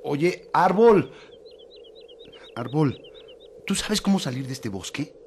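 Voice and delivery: high, nervous calling to the tree; high timid voice. Acted. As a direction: call up timidly. (voz aguda y tímida)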